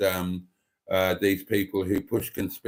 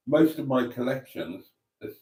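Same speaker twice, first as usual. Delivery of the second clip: interrupted by a hiccup; talking through hiccups; 3 semitones higher, 3 dB quieter than usual. Real, not acted. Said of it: "sorry, I've got hiccups now".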